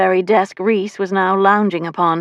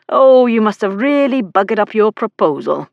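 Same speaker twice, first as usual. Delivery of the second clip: higher, gleeful teasing; with relish; 4 semitones higher, 4 dB louder than usual. A narrator's reading. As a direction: savour a brother's failure. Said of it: "Reese said with relish".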